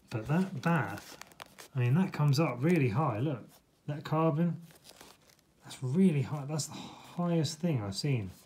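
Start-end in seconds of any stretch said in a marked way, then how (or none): 3.2-8.3 sounding a bit astonished, amazed. Showing how high the shoes come up: sounding amazed. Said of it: "Sorry if I sound a bit amazed".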